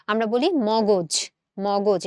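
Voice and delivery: মগজ said slowly as mo-goj, o after m; correct pronunciation. Shown as a demonstration. Teacher giving students the correct মগজ. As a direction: drag out মগজ with the o sound. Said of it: "এটা হচ্ছে আমাদের সঠিক উচ্চারণ".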